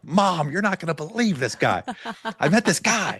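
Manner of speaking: high, laughing, gushing to mom; laughing excitement. Retold or imitated. Telling his mom about the trainer, high and laughing. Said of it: "I'm like".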